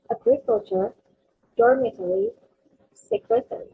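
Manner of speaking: agriculture, dormitory, secretary, each hit on its opening syllable; first-syllable stress. Shown as a demonstration. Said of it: "stressing on the first syllable".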